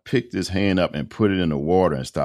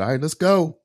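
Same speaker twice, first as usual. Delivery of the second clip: much higher, brisk command; imitated insistent wife; 13 semitones higher, 3 dB louder than usual. Wife home to take husband to hospital, imitated high-pitched insistence. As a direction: order him along like an impatient wife. Voices wife ordering him out.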